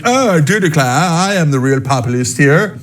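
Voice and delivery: a hint of an "I do declare" Southern accent; mock Southern drawl. Elitist posing as a Southern populist, mild mock Southern accent. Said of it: "they're like".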